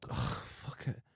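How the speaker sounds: soft, breathy resigned grumble; weary grumble. Retold or imitated. Cop giving up on the popcorn girl, resigned grumble. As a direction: give up with a tired sigh. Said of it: "he just goes".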